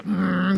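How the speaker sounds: closed-mouth drawn "mmm"; mock a tight-lipped grunt; wordless grunt. Imitating husbands who won't talk, a mute grunt. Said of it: "이러고 계세요".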